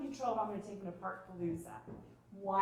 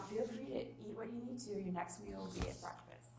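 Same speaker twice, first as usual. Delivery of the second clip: calm statement; 5 dB quieter than usual. Shown as a demonstration. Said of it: "enforceable statement".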